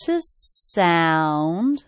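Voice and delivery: "To sound" with "to" reduced and "sound" stressed. Shown as a demonstration. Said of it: "that has stress too".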